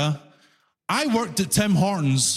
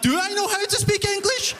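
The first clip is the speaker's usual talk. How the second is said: higher, panicky inner question; mock-worried, as if really unsure; anxious self-doubt; 12 semitones higher than usual. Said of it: "The whole time I'm like".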